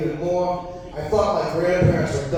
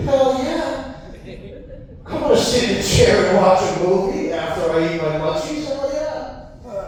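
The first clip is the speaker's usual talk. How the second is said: stoned yes; 3 semitones higher than usual. Retold or imitated. Stoned teen answering grandma.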